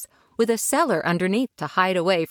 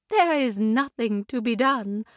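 calm; 4 semitones higher than usual. Acted. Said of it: "said the lady calmly".

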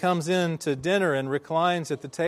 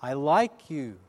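imitated echo reply; slower than usual. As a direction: echo at an ordinary volume. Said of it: "the answer came back".

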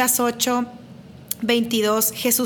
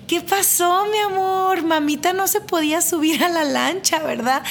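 put-on higher, sing-song mommy voice for a little boy; mother soothing her small son in a higher, cooing voice; sweet talk to a child; 5 semitones higher than usual. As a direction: coo it to her toddler, a bit higher.

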